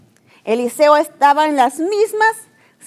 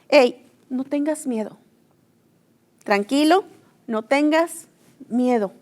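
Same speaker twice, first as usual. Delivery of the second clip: calm reassurance; 5 dB quieter than usual. Retold or imitated. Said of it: "me lo puedo imaginar con tanta paz, con tanta tranquilidad".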